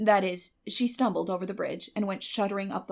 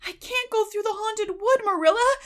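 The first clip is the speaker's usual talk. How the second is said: high, loud, desperate pleading; desperate cry; 13 semitones higher, 6 dB louder than usual. A narrator's reading. Anne begging Marilla not to send her, desperate. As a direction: beg as if the wood will swallow her. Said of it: "cried Anne desperately".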